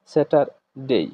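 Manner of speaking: "স্যাটারডে" with the r pronounced; American pronunciation. Shown as a demonstration. Teacher explains why the r is heard, American pronunciation. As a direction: sound the r in "স্যাটারডে", American style. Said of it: "American প্রনাউন্সিয়েশনের ক্ষেত্রে তারা আরটাকে".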